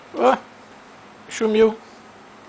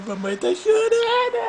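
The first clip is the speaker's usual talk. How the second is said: mock shout. Brinca que a mãe chora.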